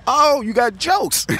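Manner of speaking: high, slow, drawn-out exclamation; retold mocking shout. Connor reacts to captive's quip, mocking shout. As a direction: call out the smart-aleck in mock outrage.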